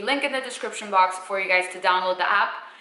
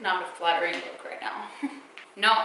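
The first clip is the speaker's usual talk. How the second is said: usual speaking voice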